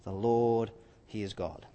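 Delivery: awed cry. Acted. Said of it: "they fell prostrate and cried".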